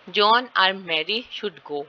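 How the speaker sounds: slow example with "John", "Mary" and "go" stressed; deliberate teacher's reading, weight on "John", "Mary", "go". Shown as a demonstration. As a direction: lean on "John", "Mary", then "go". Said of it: "John और Mary पे stress है".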